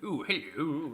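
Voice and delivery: a hint of a bad English accent, lightly voiced; mild mock posh English "ooh, hello". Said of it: "It's like that".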